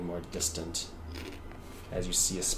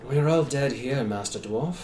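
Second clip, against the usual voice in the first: put-on measured, grave old spirit voice; ghostly figure; 2 semitones higher than usual. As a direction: speak like a weary dead soul.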